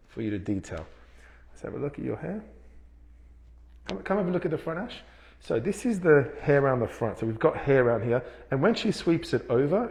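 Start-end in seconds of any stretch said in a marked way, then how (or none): 5.4-9.9 muffled behind a mask; through a face mask. Real, not acted. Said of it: "excuse the mask".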